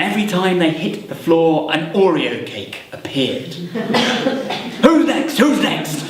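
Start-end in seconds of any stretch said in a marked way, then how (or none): 4.8-6.0 quick eager call for orders; rally the crowd as a goblin; eager goblin host. Acted. Goblin leader eagerly taking food orders.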